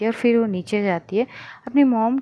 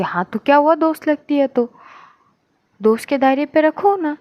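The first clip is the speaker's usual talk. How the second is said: higher, louder scolding aunt; indignant scolding; 4 semitones higher, 5 dB louder than usual. Acted. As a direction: put her firmly in her place. Aunt scolds niece in quarrel. (नाराज़ होकर डाँटते हुए)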